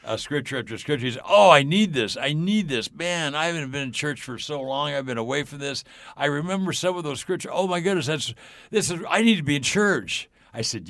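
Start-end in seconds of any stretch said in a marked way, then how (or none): 1.3-9.0 loud opening, pitched up, urgent relief; imitated eager outburst. Driver eagerly responding to scripture. 9.1-10.3 high, loud, emphatic declaration; imitated excited realization.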